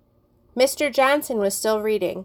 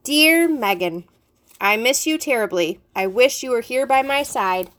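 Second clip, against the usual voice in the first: mock love letter; 3 semitones higher than usual. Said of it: "pretending to read from my notebook".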